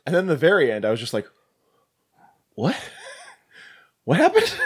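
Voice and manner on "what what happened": high-pitched squeak of mock confusion; hammed-up bewildered reaction; baffled disbelief. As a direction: squeal it, utterly lost and amused. Retold bafflement at movie's ending.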